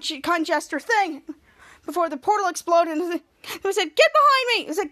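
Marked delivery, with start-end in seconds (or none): 4.0-4.6 high, loud protective shout "Get"; heroic command. Retold or imitated. Captain Man shielding the team, loud command. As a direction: bellow the order.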